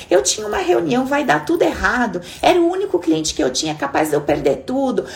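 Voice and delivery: acting out a furious driver; mock angry rant. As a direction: rant like someone whose car just got hit. Acts out an angry driver ranting.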